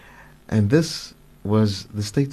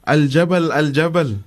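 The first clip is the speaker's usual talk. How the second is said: mild, raised-pitch mock shout; retold shout; 4 semitones higher than usual. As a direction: call it out as if shouting a warning, not at full volume. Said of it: "he shouts".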